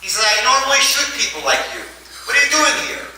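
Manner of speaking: high-pitched mock yell at the rabbis; a hammed-up angry shout, half laughing; screaming at them. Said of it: "And he screams at them".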